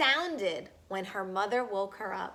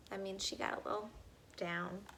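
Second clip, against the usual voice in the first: much softer quick aside; quiet aside; 4 semitones lower, 13 dB quieter, faster than usual. Real, not acted. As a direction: murmur an explanation. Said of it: "aside, much softer, fast".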